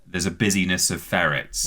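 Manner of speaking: ordinary talk, nothing marked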